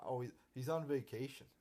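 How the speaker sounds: sarcastic singsong of the lame excuse; mock excuse. Ranting fan mocks the show's vacation excuse, sarcastic. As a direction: sneer it like a flimsy excuse. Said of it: "I hate how they say that".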